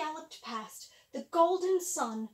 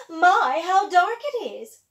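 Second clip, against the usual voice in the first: wicked stepmother; 4 semitones higher, 14 dB louder, slower than usual. Acted. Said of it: "said the stepmother".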